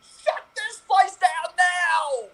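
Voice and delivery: slow, hammered-out shout; slow mock-outraged shout; slow shouted demand. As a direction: lay down the law, word by word. Nemo demanding shop closure.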